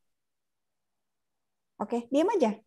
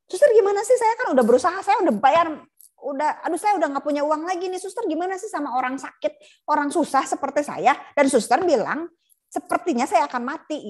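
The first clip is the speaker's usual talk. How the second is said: angry patient; 5 semitones higher than usual. Acted. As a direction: rail at the nurse as a desperate, frightened patient. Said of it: "marah-marahnya".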